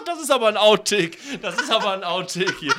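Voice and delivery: giggling through it; laughing. Real, not acted. Laughing after outtake.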